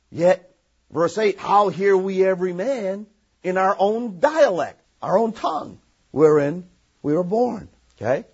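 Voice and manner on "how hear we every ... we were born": scripture reading. Acted. Reads scripture aloud.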